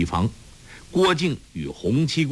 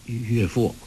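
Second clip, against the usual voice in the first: bashful. A narrator's reading. Guo Jing bashfully calls Huang Yaoshi father-in-law. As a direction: say it sheepishly, embarrassed. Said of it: "扭扭捏捏地叫道".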